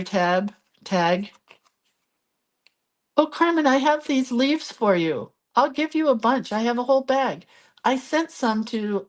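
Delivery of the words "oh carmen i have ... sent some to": bright, high, eager call to a friend; excited greeting. Real, not acted. Crafter greets viewer Carmen, excited and high. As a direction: happily call out to Carmen, higher pitched.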